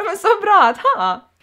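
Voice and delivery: laughing. Real, not acted. Gushing over favourite words.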